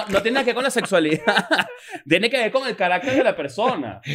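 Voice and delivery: laughing protest. Real, not acted. Friend denying that handshakes relate to sexuality, laughing. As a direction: keep arguing while cracking up. Objects while laughing at the joke.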